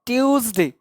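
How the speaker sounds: "ट्यूसडे" with a half T gliding into yoo; half-T pronunciation. Shown as a demonstration. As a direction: say "ट्यूसडे" as tyooz-day. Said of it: "ट में आधा ट है". ("ट्यूसडे" में आधा ट, फिर यू)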